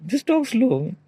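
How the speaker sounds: slow, deliberate take; talk slow. Shown as a demonstration. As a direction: ease it down word by word.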